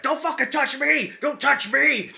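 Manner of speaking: high-pitched, loud shriek of protest; mimicked high, indignant holler; mock enraged yell. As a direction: yell it like an outraged man imitated in mockery. Acting out the shoved man's outburst.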